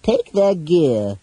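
slow, high villain command; Toda. A narrator's reading. Captor ordering the companions disarmed, in villain voice.

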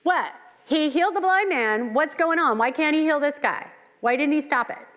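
high, loud incredulous mock questioning; doubting bystanders. The mourning Jews questioning why Jesus let Lazarus die, incredulous. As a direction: ham up the baffled skeptic crowd. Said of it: "And these Jews are like".

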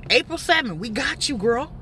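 high, loud teasing voice of fed-up fans; mocking the viewers. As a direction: mimic viewers rolling their eyes at her. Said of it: "I know y'all probably sick of me saying".

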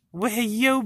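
sing-song hey; excited greeting. Real, not acted. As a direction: greet the cats brightly. Greeting cats.

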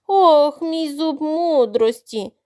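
slow drawn-out wail over a toothache; wailing moan. Acted. Crocodile wailing to the duckling about his tooth. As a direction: moan it out, milking the pain. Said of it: "заголосив Кроко".

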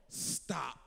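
low, soft voice of God; hushed command. Acted. God hushing the noisy crowd, low and soft. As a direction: drop right down, a soft but firm command. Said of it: "the word of the Lord comes to us and says".

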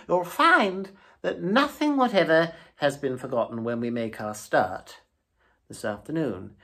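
eager toad bragging about his supplies; boastful Toad. A narrator's reading.

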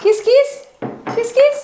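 high sing-song coaxing kiss kiss. Real, not acted. Mother coaxing her baby to kiss, high coo.

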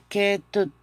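"ketut" ending in a stopped t; pronunciation demo. Shown as a demonstration. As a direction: say "ketut" as ke-tut, second syllable short. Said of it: "Suena como tut". ("ketut" con la t final cortada)

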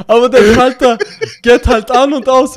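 loud, high, laughing through the words; can barely talk for laughing. Real, not acted. Laughing hard while explaining.

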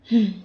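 acted sigh of worry; sighing hum; heavy sigh. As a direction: let out a resigned "hmm" sigh. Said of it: "பெருமூச்சு விட்டபடி".

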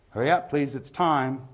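high, loud call across the pub; barman's closing call. Acted. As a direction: call time on the drinkers. Barman's closing call within the poem.

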